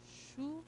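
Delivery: "chuva" softly split into chu... va; phonetic demonstration. Shown as a demonstration. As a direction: sound out "chuva" slowly, pausing between the syllables. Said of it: "como se eu tivesse falado isso aqui". ("chuva" separado em sílabas: chu - va)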